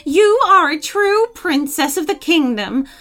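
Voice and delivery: high-voiced witch easing into apology; panting, apologetic witch. A narrator's reading. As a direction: gush thanks, then soften into an apology. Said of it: "panting and with an apologetic voice".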